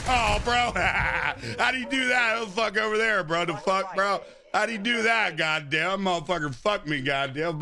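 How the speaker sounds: frat bro. Real, not acted. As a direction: yell it like a hyped gamer bro. Hyped reaction to enemy kill.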